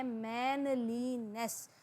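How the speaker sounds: मैनलीनेस slowly, split into मैन, ली, नेस; syllable by syllable. Shown as a demonstration. Teacher showing syllables to students, मैनलीनेस slowly broken up. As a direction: draw out each of the three syllables of मैनलीनेस. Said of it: "तो इसके अंदर तीन syllable हैं".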